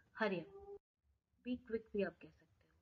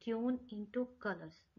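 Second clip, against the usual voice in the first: very slow, word by word; very slow teacher demo; slow careful demo; much slower than usual. Shown as a demonstration. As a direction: say it slowly so they can hear each word. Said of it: "ध्यान से सुनिए".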